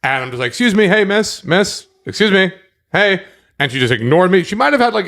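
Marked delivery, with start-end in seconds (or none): 0.5-3.2 raised voice calling out, higher; mock call to a stranger, excuse me miss; calling after her. Man retells calling after a girl who ignores him, calling out.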